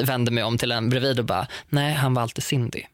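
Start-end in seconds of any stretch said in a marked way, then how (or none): 1.7-2.8 muttered aside sinking into a whisper; under the breath. Retold or imitated. Turning to the classmate alongside, retold under-the-breath aside. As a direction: slip the catty remark to a neighbour. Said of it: "under my breath".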